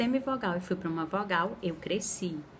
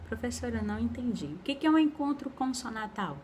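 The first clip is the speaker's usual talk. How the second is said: student asking; 4 semitones higher, faster than usual. Pretend. Teacher voices a student's question.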